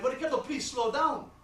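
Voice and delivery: lightly voiced accented dad; a hint of an exasperated father; lecturing father. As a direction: lay it out step by step as a father. Plays father predicting the trial.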